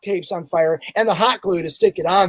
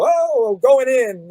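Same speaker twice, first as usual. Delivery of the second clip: mimed entrance; 4 semitones higher, slower than usual. Retold or imitated. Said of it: "in mime".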